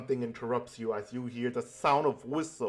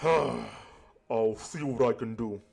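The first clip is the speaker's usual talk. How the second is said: resigned Asumi; slower than usual. Acted. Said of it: "a horrible attempt of voice acting".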